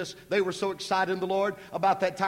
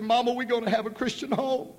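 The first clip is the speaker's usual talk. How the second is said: put-on high, happy child's voice; joyful girl; 6 semitones higher than usual. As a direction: tell her mama with delight. Daughter tells mother.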